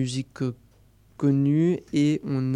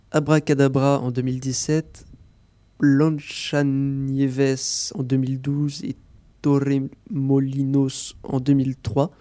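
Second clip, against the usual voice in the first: self-mocking clumsy Spanish accent on the titles; slower than usual. Shown as a demonstration. Radio chronicler reading Spanish film titles, in a clumsy Spanish accent. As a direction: roll the Spanish titles with a shaky Spanish accent, slowing down. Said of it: "c'est mon accent espagnol un peu pourri".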